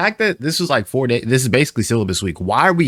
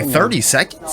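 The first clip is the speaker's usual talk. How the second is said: incredulous; 6 semitones higher than usual. Real, not acted. Balks at a time limit.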